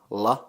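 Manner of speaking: "la" said as at the start of La Granja; Finnish syllable la. Shown as a demonstration. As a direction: say a short, clear "la". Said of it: "pronounced like".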